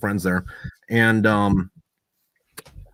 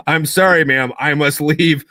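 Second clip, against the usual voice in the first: slow, higher, louder overly proper exit line; mock formal apology; 4 semitones higher, 6 dB louder, slower than usual. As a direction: play it stiffly polite and dignified, slowly. Apologizing after vomiting on dancer.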